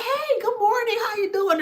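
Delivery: high, bright, bubbly hello; sing-song cheery good morning; chirpy greeting. Retold or imitated. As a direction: greet them like you're full of sunshine. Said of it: "You're like".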